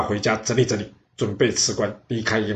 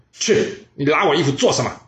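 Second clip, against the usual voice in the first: a touch higher and louder telling-off; king scolding the general who tugs at him; angry scolding; 4 semitones higher, 3 dB louder than usual. Acted. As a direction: berate the clinging minister. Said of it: "并且大声的骂他说".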